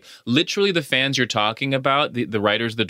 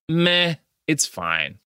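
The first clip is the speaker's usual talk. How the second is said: unimpressed; 4 semitones higher, slower than usual. Retold or imitated. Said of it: "This was just like".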